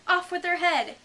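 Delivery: high, very loud imperious shout. Acted. The Queen ordering an execution, shouting. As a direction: bellow the sentence like a queen.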